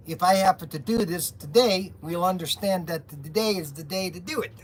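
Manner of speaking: put-on comic character with a foreign accent; Mister Wiggins. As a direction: play a sketch-show boss with a thick comic accent. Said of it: "I'm gonna talk like this".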